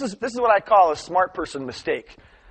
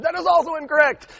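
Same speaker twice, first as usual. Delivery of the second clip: raised, high-pitched mock pronouncement; stern teacher; 12 semitones higher, 5 dB louder than usual. Teacher turning down the second answer, stern. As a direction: rule it out loudly from the front.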